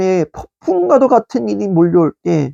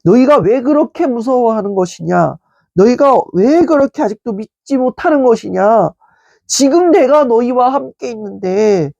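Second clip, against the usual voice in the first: gentle questioning; 3 semitones higher than usual. Retold or imitated. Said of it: "이렇게 말씀하시는 것이겠죠".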